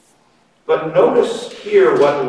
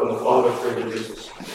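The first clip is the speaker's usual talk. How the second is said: softer, quicker, almost under the breath; hushed awe; 5 semitones lower, 8 dB quieter, faster than usual. Shown as a demonstration. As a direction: let the repeat fall to a hushed murmur in wonder. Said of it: "It's beautiful".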